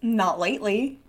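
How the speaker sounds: put-on softly said with a slight southern accent; understated southern accent, rising at the end. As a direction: slip lightly into a southern accent. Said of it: "a southern accent there".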